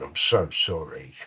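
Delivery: playfully over-sincere, slowing right down; mock-solemn apology. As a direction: draw out a pretend heartfelt apology. Mock apology for promoting nicotine.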